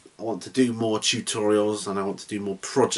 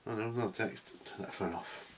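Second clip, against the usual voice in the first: quiet aside; 13 dB quieter than usual. Real, not acted. Annoyed aside to himself.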